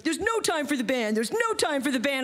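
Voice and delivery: high, urgent promoter imitation; frantic mock yell; retold yelling. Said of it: "he's yelling at me".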